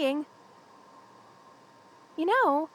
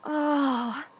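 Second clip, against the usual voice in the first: long, falling "oh"; relieved sigh. Acted. Power back after the blizzard, relieved sigh. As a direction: let the relief out in one sigh.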